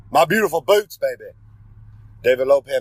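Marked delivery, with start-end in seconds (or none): 0.1-1.3 proud reveal. Acted. Proudly unveiling his boots.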